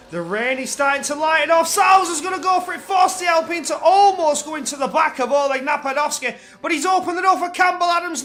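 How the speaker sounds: loud rising race call; excited commentator. Acted. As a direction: call the move with urgency. Calling an overtake.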